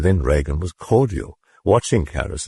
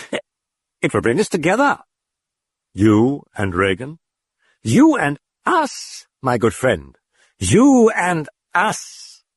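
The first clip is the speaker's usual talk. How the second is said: demon voice; 9 semitones higher than usual. A narrator's reading. The demon luring Karras, high and sinister. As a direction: draw out each word with menace.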